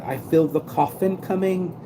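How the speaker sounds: English granny voice, ready to go; English grandma accent. Retold or imitated. Vlogger voicing a friend's English grandma in an English accent. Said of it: "he did it in an English accent".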